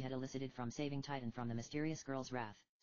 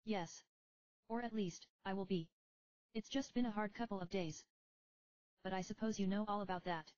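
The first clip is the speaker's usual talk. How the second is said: put-on higher, tired young heroine; young woman voice; 7 semitones higher than usual. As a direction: speak as a weary young summoner. Rydia voiced in dialogue.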